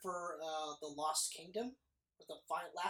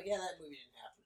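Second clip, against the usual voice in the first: whispered quote; 4 semitones lower, 3 dB quieter than usual. Retold or imitated. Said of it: "it's almost like they go".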